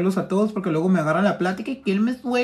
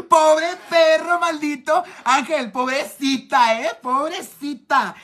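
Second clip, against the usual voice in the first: mock pity; 6 semitones higher, slower than usual. Mock pity for a friend's age.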